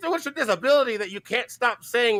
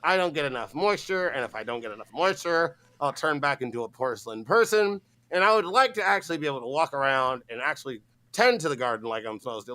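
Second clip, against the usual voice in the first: low, soft whiny gnome voice; garden gnome mimic; 10 semitones lower, 4 dB quieter than usual. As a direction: play the pouting gnome. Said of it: "Like, what?".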